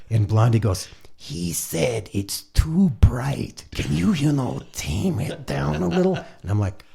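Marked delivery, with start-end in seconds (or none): 1.2-6.1 slow, higher-pitched relayed message; lightly imitated diplomatic interpreter; retold go-between. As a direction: spell it out slowly, like translating for someone. Blondie translating Ray's grumble.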